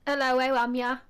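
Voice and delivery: native-style Black Country phrase; Black Country accent. Shown as a demonstration. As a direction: demonstrate a Black Country hello. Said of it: "can I do a Black Country accent?".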